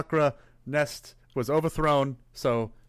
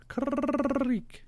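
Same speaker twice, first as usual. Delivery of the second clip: high, chirpy squawk of a name; bird call; 12 semitones higher, 6 dB quieter than usual. Pretend. Saying bird character's name.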